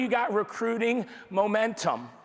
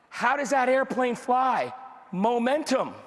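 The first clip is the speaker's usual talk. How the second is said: rousing shout; 4 semitones higher than usual. Real, not acted. Rousing the crowd.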